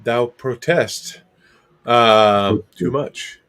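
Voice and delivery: put-on a light parody of an old stage actor, drawing it out; mock Shakespeare. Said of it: "It's like reading Shakespeare".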